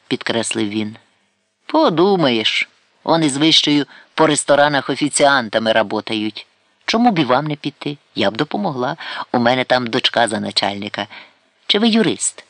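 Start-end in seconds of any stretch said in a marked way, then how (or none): 1.7-12.4 Karapet dismissive. Acted. Karapet lecturing Sidalkovsky about work, scoffing. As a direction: scoff and then push advice. Narrator voices Karapet scolding.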